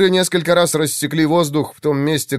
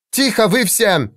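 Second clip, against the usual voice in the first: barking order; 9 semitones higher than usual. A narrator's reading. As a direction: snap the room silent. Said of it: "неожиданно рявкнула Валира". (резкий окрик, приказ замолчать)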